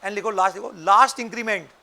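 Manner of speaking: slow dictation, phrases repeated; dictating. Shown as a demonstration. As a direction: spell it out slowly for writing. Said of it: "लिखो full stop".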